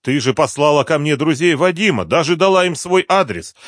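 ordinary delivery

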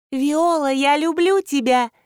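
high, loud odd toy voice; toy bat voice. Acted. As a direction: chirp it like a gadget.

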